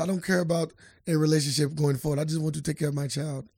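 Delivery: loosely imitated Russian accent; put-on Russian accent. Co-host retells her interview statement, mock Russian accent. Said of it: "I don't know why I'm using the accent".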